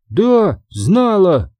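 high, insistent little fairy voice; small creature's high-pitched insistence; squeaky fairy. Acted. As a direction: pipe up defiantly in a high fairy voice.

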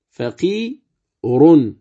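فقير drawn out very slowly with a faint u on the ra; slow rawm stop. Shown as a demonstration. Teacher demonstrating the rawm stop slowly. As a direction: stretch it and barely voice the vowel. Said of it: "كذلك".

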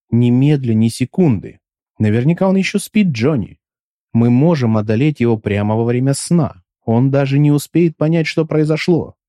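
lightly voiced affected dandy; a touch of prissy, mannered speech. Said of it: "нелепый, манерный голос".

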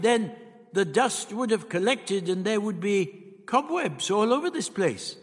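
the Doctor, musing. A narrator's reading. Plays the Doctor explaining.

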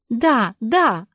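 loud, high, happy cry; light up with joy; a little girl's eager yes; delighted. A narrator's reading. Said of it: "обрадовалась Жози".

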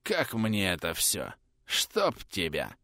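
slow, low, pained groan. Acted. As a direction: moan it out, hurting. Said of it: "простонал ротмистр".

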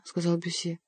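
ordinary delivery, nothing marked

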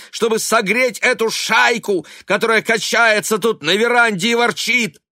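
высокий громкий крик; кричи в ярости. A narrator's reading. Сын продолжает кричать на мать. (сын кричит на мать, громко и высоко)

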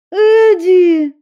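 high, loud shocked outburst; horrified at what she hears; loud cry of dismay; stunned cry. A narrator's reading. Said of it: "ошалела от услышанного Стелла".

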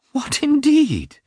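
high, slow, indignant retort; offended. A narrator's reading. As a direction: throw it back offended, pitch soaring. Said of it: "offended that he seemed opposed to".

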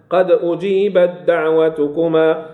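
أجيبت دعوتكما slowly recited, taa turned into d; full merging demonstration. Shown as a demonstration. Teacher repeats the example slowly, taa of أجيبت as dal. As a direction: draw out أجيبت دعوتكما with a doubled d at the join. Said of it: "تقرأ دالا".

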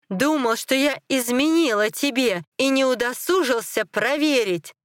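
screaming in anger. A narrator's reading. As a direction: keep crying out the accusation. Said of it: "закричала она".

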